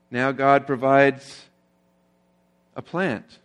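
God provided the storm earlier, said slowly and deliberately; slow stress on provided. Shown as a demonstration. Pastor stressing the three times God provided, slow and deliberate. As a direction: lay each word down slowly. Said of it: "it says that God provided three times".

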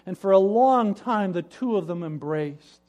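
ordinary delivery, nothing marked

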